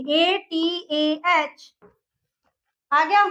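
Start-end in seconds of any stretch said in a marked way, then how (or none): 0.1-1.7 letter by letter, slow; spelled out slowly. Shown as a demonstration. Teacher spelling a word for students, slow and clear. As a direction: spell each letter out for the class. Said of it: "कैसे लिखेंगे".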